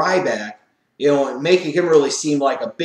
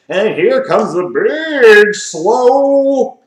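loud, slow, drawn-out mock announcement, higher; mock ring announcer; 7 semitones higher, 8 dB louder, much slower than usual. Mocking the bookers as he parades in the Big Show, hammed-up announcer call. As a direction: boom out the entrance like a hammy ring announcer. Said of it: "it was just like".

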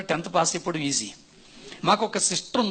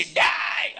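father's angry shout; much slower than usual. Retold or imitated. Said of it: "అనుకుంటూ సీరియస్గా వచ్చారు".

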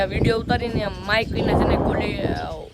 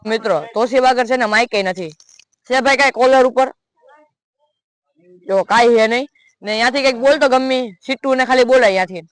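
raised voice from a distance; mildly louder mic-range test, calling across the yard; speaking a bit louder; 3 semitones higher, 5 dB louder than usual. Shown as a demonstration. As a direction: project toward the far-off mic. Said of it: "તો થોડોક જોરથી બોલું".

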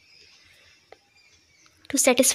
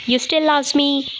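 higher, slower, hopeful question; 4 semitones higher than usual. Acted. Ex asking the nurse back, slow hopeful question. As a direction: ask it back slowly, hoping it's true.

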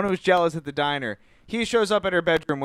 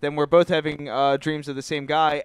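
put-on higher-pitched retelling of a worried girl; mock alarm; 4 semitones higher than usual. Girl telling boyfriend about the shared killer dream, mock alarm. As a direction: act out mild panic, pitched up. Acting out her dream panic.

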